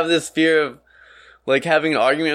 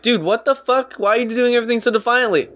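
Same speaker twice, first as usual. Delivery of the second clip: mock confused friend; 10 semitones higher than usual. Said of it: "it's just like".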